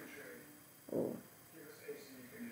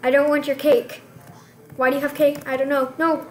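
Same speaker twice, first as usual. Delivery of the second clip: loud, higher, exasperated; exasperated shout; 4 semitones higher, 10 dB louder than usual. Real, not acted. Player yelling at sister who offers cake, exasperated loud protest.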